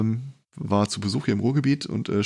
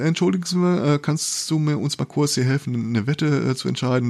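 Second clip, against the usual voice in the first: put-on light Saxon accent; 6 semitones higher than usual. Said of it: "leicht sechselnd angefangen hast".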